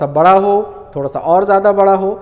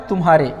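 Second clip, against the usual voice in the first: तुम्हारे said without a gap before हा; joined as one word; 4 semitones lower than usual. Shown as a demonstration. Teacher repeating how तुम्हारे is pronounced, run together. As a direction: keep तुम्हारे in one piece, no pause. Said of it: "क्या उच्चारण हो रहा है".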